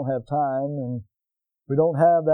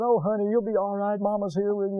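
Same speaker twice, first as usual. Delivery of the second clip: comforting mother; 4 semitones higher than usual. Retold or imitated. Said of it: "hugging them, you know, and saying".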